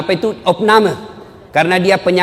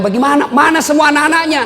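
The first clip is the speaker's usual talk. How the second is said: indignant surprise; 10 semitones higher than usual. Retold or imitated. Preacher asking the widow where her children are, indignant.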